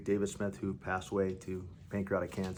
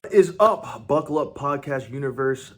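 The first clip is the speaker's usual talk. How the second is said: hyped greeting; 6 semitones higher, 11 dB louder than usual. Acted.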